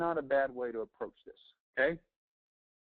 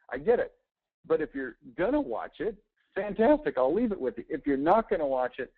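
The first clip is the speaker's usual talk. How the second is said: upbeat canvasser pitch; 5 semitones higher than usual. Shown as a demonstration. Salesman role-plays pitch at door.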